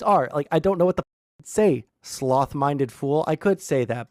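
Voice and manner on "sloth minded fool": slow, lightly voiced Victorian noble; a hint of a lofty old-fashioned insult, drawn out; mock Victorian insult. Streamer tries a lofty insult on chat, slow mock Victorian. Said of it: "that feels too President Sunday-esque".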